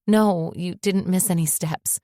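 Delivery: slow, shaky and tearful. Acted. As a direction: say it trembling on the edge of tears. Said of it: "I said shakily".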